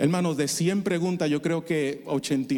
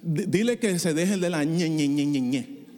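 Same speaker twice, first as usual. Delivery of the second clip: sarcastic mockery. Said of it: "Dios no es sarcástico".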